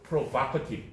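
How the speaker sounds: provocative with the stress moved to VOC; shifted stress. Shown as a demonstration. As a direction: say provocative slowly as pro-VOC-ative. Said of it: "발음이 강세가 바뀌어서 발음도 바뀌었어요".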